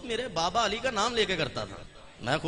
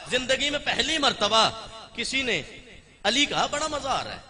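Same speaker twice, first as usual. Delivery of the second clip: laughing; 7 semitones higher than usual. Acted. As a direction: chuckle out "बड़ा मजा आ रहा है" gently. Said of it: "Abbas मुस्कुरा के कहते".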